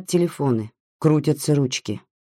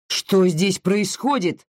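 barked question; 5 semitones higher, slower than usual. Acted. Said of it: "гаркнул Сикорский".

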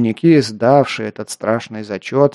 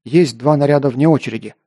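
shouted reply. Acted. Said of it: "выкрикнул я".

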